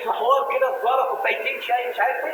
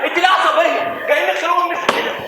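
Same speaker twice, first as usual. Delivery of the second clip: loud retort; 5 semitones higher, 3 dB louder than usual. Acted. Arguing loudly.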